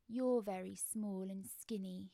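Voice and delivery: slow, mournful monster gentleman; sorrowful crab man. Acted. Mister Krabs eyeing the skinny child, slow and sorrowful. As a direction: pity the child before eating it. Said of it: "looking sorrowful".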